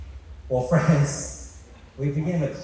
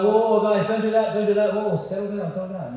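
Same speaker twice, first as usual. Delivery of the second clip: high, urgent plea, loud then tailing off; mock frantic calming; 7 semitones higher, 5 dB louder than usual. Preacher voices Jesus hurrying to calm the angels, high frantic plea. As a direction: play someone rushing to break up a fight. Acting out a hasty peacemaker's intervention.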